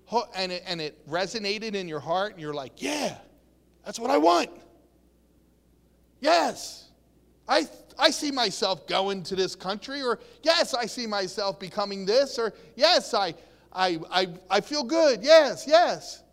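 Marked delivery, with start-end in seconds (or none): 2.8-10.0 excited response. Acted. Acts out thrilled response to encouragement. 10.4-16.2 excited response. Acted. Acts out thrilled response to encouragement.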